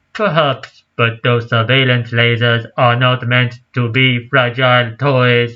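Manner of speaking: lightly voiced robot professor; a hint of a robot voice. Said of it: "Do you like my robot voice?".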